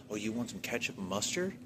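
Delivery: retelling the cashier's pushy, aggressive offer; mock aggressive cashier. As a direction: imitate her controlling, confronting tone. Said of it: "aggressive and, like, confronting, controlling attitude".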